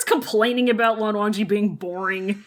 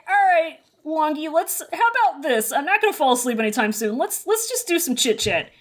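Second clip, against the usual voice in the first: chirpy high voice; 4 semitones higher than usual. Retold or imitated. Chirpy Wei Wuxian.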